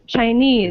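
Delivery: "Chinese" as chi-NESE; second-syllable stress. Shown as a demonstration. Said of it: "So we stress this part".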